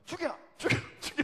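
high, loud slip of the tongue, played for laughs; mock prayer cry. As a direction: imitate an overheated shouter, comically. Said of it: "어떤 분은 주여, 주여 하다가".

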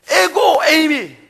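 rising to a loud, slow, emphatic peak; preaching at full force. Real, not acted. Preacher proclaiming God's name to the congregation, loud and slow. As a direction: build it up and proclaim.

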